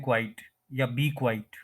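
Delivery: "क्वाइट" run into one syllable, as in quite; common mispronunciation. Shown as a demonstration. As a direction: say "क्वाइट" wrongly as a single syllable. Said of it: "तो वो गलत है".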